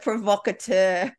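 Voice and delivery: put-on drawn-out French-accented "provocateur"; fancy French pronunciation of "provocateur". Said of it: "I said it with a French accent".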